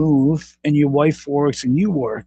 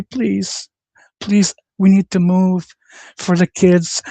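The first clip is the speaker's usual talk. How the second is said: mock pleading husband; 2 semitones higher than usual. Streamer mocking a meek husband begging his wife, pleading.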